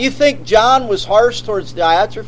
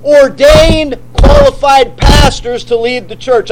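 shouted proclamation; 4 dB louder than usual. Real, not acted. Preaching climax.

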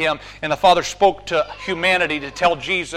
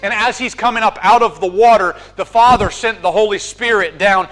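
rising, louder sermon climax; full-force preaching; 3 semitones higher, 4 dB louder than usual. Acted. Preacher urging the congregation, climactic, impassioned preaching.

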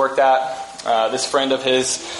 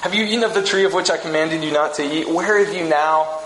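a hint of a longing divine voice; voice of God's heart. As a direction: ask like a heartbroken father. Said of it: "the inner dialogue of God's heart".

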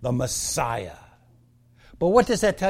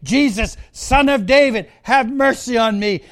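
mild, raised call for mercy; 4 semitones higher than usual. Acted. Blind Bartimaeus calling out to passing Jesus, mildly raised. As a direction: call out with restrained force, a touch higher. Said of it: "He called out".

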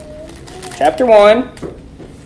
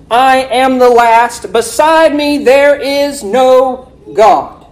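preaching scripture; 3 semitones higher, slower than usual. Acted. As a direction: proclaim the verse to the congregation. Proclaims the verse like a preacher.

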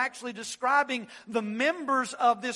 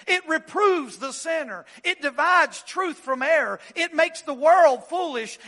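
higher and louder, climbing; sermon crescendo; building preaching; 4 semitones higher, 4 dB louder than usual. Acted. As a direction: build the list to a climax. Rising preaching climax.

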